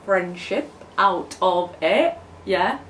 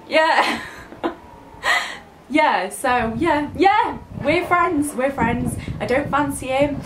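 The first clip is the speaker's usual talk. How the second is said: crying through laughter; 3 semitones higher, slower than usual. Real, not acted. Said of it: "Don't cry again".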